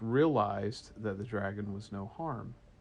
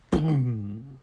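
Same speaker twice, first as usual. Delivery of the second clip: a dull boom of something bumping a boat; imitated thud; 3 dB louder than usual. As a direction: voice the bump.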